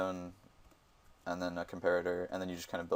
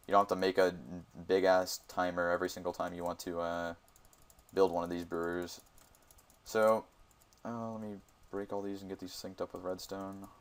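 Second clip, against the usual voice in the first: talking while chewing gum. Real, not acted. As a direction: speak around a wad of gum. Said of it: "Sorry, I'm chewing gum".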